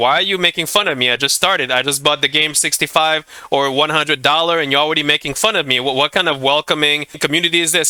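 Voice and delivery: ordinary delivery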